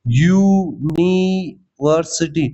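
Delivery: "यूनिवर्सिटी" stretched very slowly so the opening "yu" sound is clear; drawn-out pronunciation. Shown as a demonstration. Teacher sounding out "यूनिवर्सिटी" for students, very slowly. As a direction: draw out "यूनिवर्सिटी" to show its starting "y" sound. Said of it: "वाई का sound आ रहा है ये भाई".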